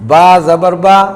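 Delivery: short با said clipped with a quick plain zabar; a brief, unstretched با. Shown as a demonstration. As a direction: say با short, no stretching the vowel. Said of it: "بس اتنا".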